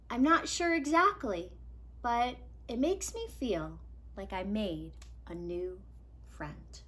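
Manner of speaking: softening to a whisper at the end; tender. Acted. Iris telling Nico he is a friend, fading tender. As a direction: let it fade gently.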